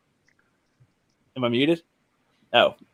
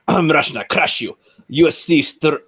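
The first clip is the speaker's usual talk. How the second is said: attempted Russian accent. Shown as a demonstration. Warming up to read the article, attempted Russian accent. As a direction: try out a shaky-footed Russian accent. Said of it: "hard to get the Russian accent here".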